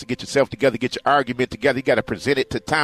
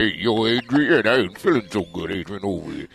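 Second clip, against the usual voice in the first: lightly voiced, sagging Rocky-style plea; imitação do cachorro; 3 semitones lower than usual. Acts out the dog calling Adrian.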